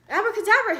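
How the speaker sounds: high, loud magic word; shouted abracadabra. Acted. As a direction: call out the spell with gusto. Owl casts magic word.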